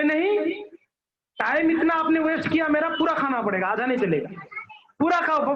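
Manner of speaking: lightly acted child putting a foot down; insistent child. Child insists God finish food.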